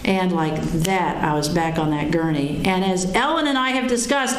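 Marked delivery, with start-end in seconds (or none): none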